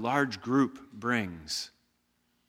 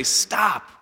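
commanding stop; 8 semitones higher, 6 dB louder than usual. Retold or imitated. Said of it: "only for Jesus to say".

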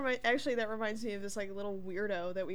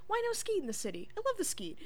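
higher, faster goofy guy voice; hammed-up lunatic, much higher; mock excited rambler; quoting Ray; 12 semitones higher, 4 dB louder, faster than usual. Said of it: "And he goes".

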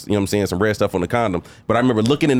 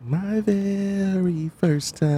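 mock dramatic; 6 semitones higher, 5 dB quieter, much slower than usual.

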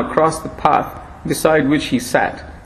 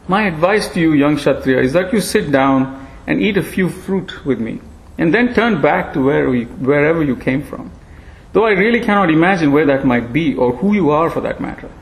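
thin ancient voice, gently chiding; frail old monkey. Acted.

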